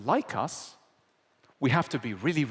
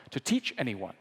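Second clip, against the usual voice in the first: ordinary talk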